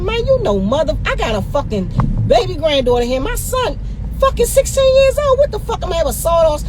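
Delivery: high, indignant cry of disbelief; outraged protest. Retold or imitated. Protesting to the officer about her sixteen-year-old son, high and outraged. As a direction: throw it back at them, outraged.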